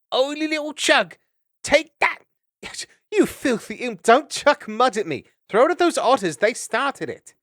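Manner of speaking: very high, loud impish squeal; a gleeful small child flinging mud; tiny high-pitched mischief-maker; squeaky little Chug. Acted.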